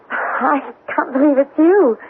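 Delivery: slow, on the edge of tears; barely holding back tears at seeing him; tearful disbelief. Acted. Hannah to returned Charlie, tearful and slow.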